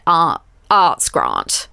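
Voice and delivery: "grant" with a long, posh ah; posh pronunciation. Retold or imitated. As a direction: draw out "grant" as grahnt, very slowly. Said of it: "like, that posh thing".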